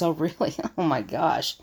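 scoffing "oh my gosh" with a dismissive laugh; mocking laugh. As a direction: laugh it off as if the idea is silly. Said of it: "You can hear the tone".

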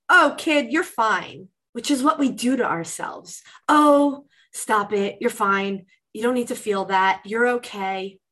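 dismissive brush-off. Retold or imitated. Parent brushing off the upset child, lightly voiced as dismissive. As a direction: wave the kid's feelings away.

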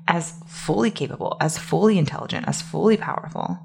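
spaced, hushed emphasis on fully; pause for emphasis. Shown as a demonstration. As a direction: let each phrase land after a pause, dropping to near whisper. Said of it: "pause for emphasis there".

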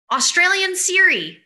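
laughing through Australian Siri. Real, not acted.

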